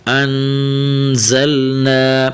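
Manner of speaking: slow انزلنا with held N and firm Z; firm buzzing Z. Shown as a demonstration. Teacher shows the letter za, انزلنا with a firm Z. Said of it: "تھوڑا سا سختی کے ساتھ".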